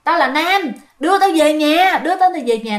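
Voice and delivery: imitated hollering spirit; retold yelling. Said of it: "nó cứ la vậy đó".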